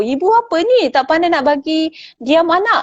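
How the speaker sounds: put-on blaming a stranger mother for her noisy child; scornful. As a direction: sneer at the mother's failure. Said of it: "menyalahkan ibu tu".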